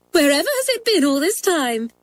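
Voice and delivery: high, excited schoolgirl wonder; delighted squeal. A narrator's reading. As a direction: marvel in a squeaky high voice at the find. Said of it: "squealed Doris".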